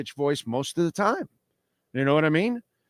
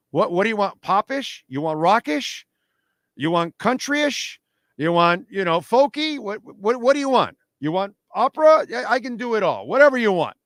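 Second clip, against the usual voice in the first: high, eager sales pitch of every style; pitched way up, mock-bragging as a rock singer; excited boasting; 7 semitones higher than usual. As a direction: rattle off the styles like a showman who can do anything.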